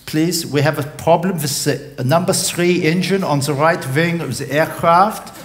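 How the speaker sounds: captain over the cabin speaker; captain's announcement. Acted. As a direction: address the passengers like an airline captain. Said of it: "the captain's voice came over the speaker".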